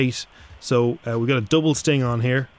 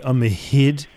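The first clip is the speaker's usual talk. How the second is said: mock French vowel on "hid"; lightly hammed French; French accent; slower than usual. Shown as a demonstration. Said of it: "say it in a French accent".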